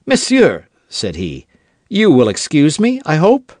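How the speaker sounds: high, eager polite call. Acted. D'Artagnan hailing Aramis, eager and polite. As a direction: reach out courteously, voice lifted.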